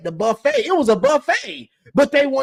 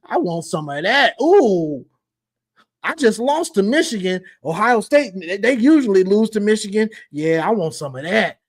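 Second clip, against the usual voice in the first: mock eager Caleb; 3 semitones lower than usual. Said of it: "and he said".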